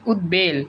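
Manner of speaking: উদ্বেল as ud-bel; ব sounded. Shown as a demonstration. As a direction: clear d and b in উদ্বেল. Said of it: "উচ্চারিত হয়".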